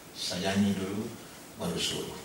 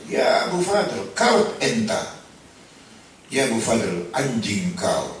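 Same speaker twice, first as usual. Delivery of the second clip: furious shout, much higher and louder, slow; angry yelling boss; 3 semitones higher, 6 dB louder, much slower than usual. Retold or imitated. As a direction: bark abuse at the servant. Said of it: "majikannya marah dan berteriak". (majikan membentak pembantu dengan marah)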